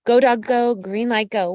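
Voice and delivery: put-on loud, bouncy children's-book chant; Dr. Seuss cheer. Reader told to go for it, loud storybook cheer. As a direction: cheer them on like a picture book. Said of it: "green light go from Doctor Seuss's books".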